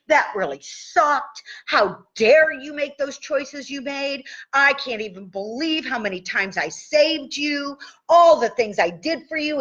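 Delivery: mock rant. Shown as a demonstration. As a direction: vent like a wronged neighbor, half-acted. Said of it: "I rant tapped and I throw that little girl under the bus".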